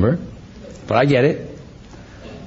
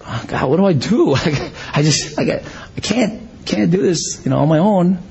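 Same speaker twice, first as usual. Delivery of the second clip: helpless, halting mock plea; Abraham, frustrated; 3 semitones higher than usual. Childless husband pleading with God, frustrated and overwhelmed. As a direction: throw up a lightly acted complaint to God. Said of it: "He, he was frustrated".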